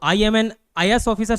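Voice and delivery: slow, weighted "I am an IAS officer"; slow quoted line. Retold or imitated. Teacher quoting the film officer, slowly. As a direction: say it slowly, with "an" clearly heard. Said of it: "बोलते सुनो".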